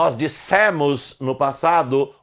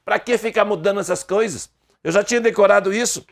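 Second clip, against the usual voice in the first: fast, exasperated grumble; mock annoyed student; complaining Brazilian; 4 semitones higher, faster than usual. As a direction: whine like a fed-up student. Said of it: "o brasileiro comum diz assim".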